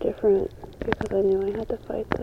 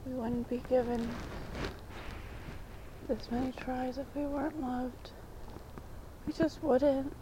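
softer, hushed and earnest; soft and sincere; 5 dB quieter than usual. Real, not acted. Telling viewers how she sees God, soft and sincere. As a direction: confide it gently, half whispered.

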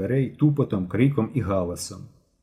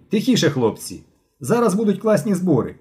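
raised voice, moderately shouted announcement; calling out; 8 semitones higher, 3 dB louder than usual. A narrator's reading. Boy announces a class meeting, calling out. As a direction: call the class to order. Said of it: "Крикнув".

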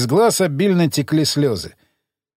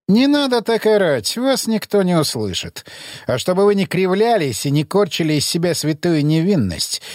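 haughty interrogator; 3 semitones higher than usual. Acted. Emissary interrogates prisoner.

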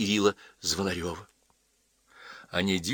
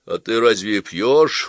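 slow, louder surprised question; 6 dB louder, slower than usual. Acted. Father questions his daughter, mildly surprised. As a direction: draw it out in mild astonishment. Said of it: "удивился Чагин".

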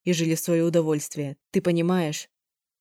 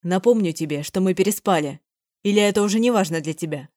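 louder, exasperated scolding; man scolds her loudly; raised voice; 3 dB louder than usual. Acted. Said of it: "на повышенных тонах".

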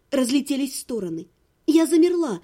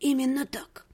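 much softer, dry scoring; cool quiet teasing; 3 semitones lower, 5 dB quieter than usual. Acted. Heroine teasing her ex, soft and dry. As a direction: tease him softly, deadpan.

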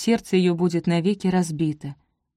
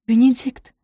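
loud, higher call of his name; alarmed call; 6 semitones higher, 6 dB louder than usual. A narrator's reading. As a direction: call him back in alarm. Sophie calls out alarmed.

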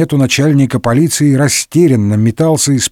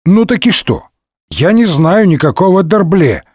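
annoyed dismissal; 5 semitones higher than usual. Acted. Annoyed Д'Артаньян brushes off youth.

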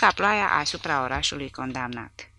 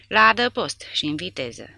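shouted order; 4 semitones higher, 6 dB louder than usual. Acted. Ordering men to shelter.

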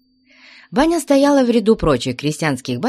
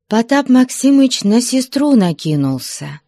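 narration pushed up high and loud; urgent narration; 6 semitones higher, 4 dB louder than usual. A narrator's reading. Narrator building to Potap's attack, high and loud. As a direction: tell it as if the outburst bursts in.

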